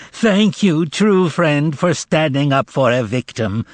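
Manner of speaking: milk it as a victim; tragic cry. Acted. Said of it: "cried out tragically".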